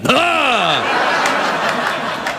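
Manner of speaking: high startled ah, like seeing Candyman; mock startled. Seeing the host in the mirror, mock fright. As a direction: gasp as if spooked. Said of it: "I'm like".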